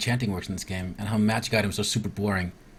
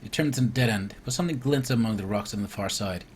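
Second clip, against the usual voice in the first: steady storybook narration, falling at line ends; story narration. Acted. Player reading the cave swim to viewers, narrating. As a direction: read the adventure text aloud evenly. Reads the game's scripted event aloud.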